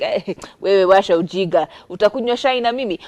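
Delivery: put-on dad brushing it off in a Kikuyu accent. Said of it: "I went into a Kikuyu accent".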